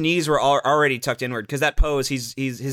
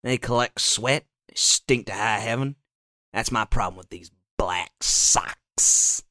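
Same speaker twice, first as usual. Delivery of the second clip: racist character delivery; 3 semitones lower than usual. Pretend. Mocking black sock wearers in a racist TV character voice. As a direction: savor every word with a hint of a Southern bigot. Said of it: "That's the delivery of all these racist characters".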